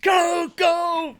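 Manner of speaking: high, loud intro shout. Pretend. Host kicking off the show, shouting. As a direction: holler it out to open the show.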